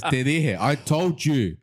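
high-pitched, exasperated mother; mum going Super Saiyan. Retold or imitated. Mum telling off her kid at the car, exasperated. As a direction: scold like a fed-up mum. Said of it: "she went, like, Super Saiyan on me".

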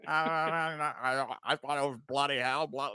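mock British accent, bloody hell and all; half-hearted British impression. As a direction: lightly put on English accent. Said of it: "That was a really good accent".

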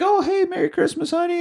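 high-pitched put-on greeting to family; cheery dad greeting. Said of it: "he's like".

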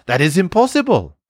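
high, regretful IMPOSSIBLE with a falling end; sad. A narrator's reading. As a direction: give up on it, letting "impossible" fall sadly. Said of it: "she said sadly".

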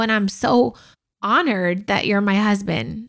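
crying while praising her husband; tearful. Real, not acted. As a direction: speak through real tears of pride. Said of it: "'cause I'm crying".

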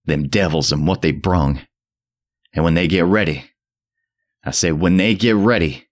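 put-on mad frenzied old man. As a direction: rave at the boy in frenzy. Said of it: "the mad frenzy of his voice".

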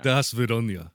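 mock Russian farewell; Russian accent. Host signs off his birthday greeting, Russian accent. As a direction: say goodbye in a put-on Russian accent. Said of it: "I wanna hear Russian".

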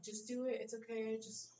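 soft, hushed coaxing to herself; self pep talk. Retold or imitated. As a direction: talk yourself into being brave under your breath. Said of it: "convince myself to be brave".

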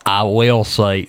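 slipped into a slow Southern drawl; southern accent. Real, not acted. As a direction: let the Southern accent creep in. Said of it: "sorry, my southern accent came out".

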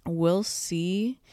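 talking around a retainer; slightly thick speech from retainers; wearing a retainer. Real, not acted. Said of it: "I have my retainers in".

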